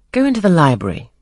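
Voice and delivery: curt command. Acted. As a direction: bark it out as a master to a new governess. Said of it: "Excuse my tone of command".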